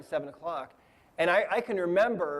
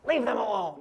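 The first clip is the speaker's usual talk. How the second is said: mild imitated yell, pitched up; higher-pitched retold shout; mock shouting; 4 semitones higher than usual. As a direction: imitate entities shouting, without full volume. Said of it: "they were shouting things to me like".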